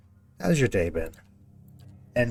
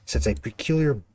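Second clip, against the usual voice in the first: reading game text. Acted. Reads game description text.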